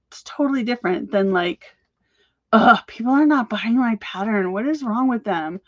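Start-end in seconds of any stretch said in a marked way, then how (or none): 2.5-5.6 exasperated groan into a complaint; louder mock-frustrated outburst at the start; mock exasperation. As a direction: act out a fed-up seller, lightly hammed-up. Acted contrast of an exasperated seller.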